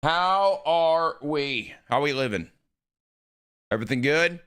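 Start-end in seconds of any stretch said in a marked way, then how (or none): 0.0-1.7 slow, drawn-out hello to chat; long lazy stretched greeting. Real, not acted. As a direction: stretch every word out, slow and sing-song. Streamer greeting chat repeatedly.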